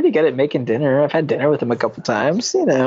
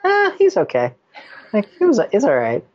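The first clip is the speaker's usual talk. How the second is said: grudging faint praise; 7 semitones higher than usual. Pretend. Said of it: "I should have started with".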